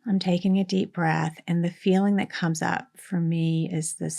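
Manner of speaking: soft, unhurried meditation voice with long pauses; guided meditation. Real, not acted. Coach guiding a listener to name a feeling, soft meditation voice. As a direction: speak softly, leaving space to feel.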